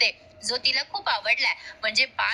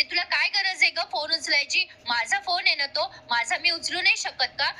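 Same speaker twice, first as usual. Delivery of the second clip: irritated retort; 5 semitones higher than usual. Retold or imitated. Kavya challenging whoever reached for her phone, mild mock indignation. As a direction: imitate an annoyed challenge, mildly heated. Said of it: "अजूनच चिडते तिच्यावर".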